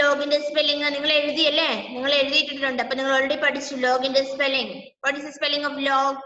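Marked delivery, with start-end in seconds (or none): 5.0-6.2 put-on very slow, each word drawn out for children; teacher spelling it out slowly; slow model question. Shown as a demonstration. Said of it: "ടീച്ചർക്ക് പറഞ്ഞു തന്നെ".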